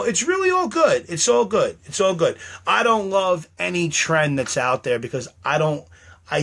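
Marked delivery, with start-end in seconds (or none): 0.0-2.4 much higher strained reassurance; forced cheer. Real, not acted. Reassuring viewers while upset, high forced cheer. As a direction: push a high fake it's fine.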